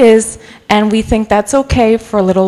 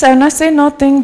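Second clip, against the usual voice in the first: put-on a quick taste of her old New York accent; 4 semitones higher than usual. Shown as a demonstration. Preacher showing the congregation her New York accent, lightly. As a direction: drop into the New York accent she says comes out when she's mad. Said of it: "And then I sound a little bit like this".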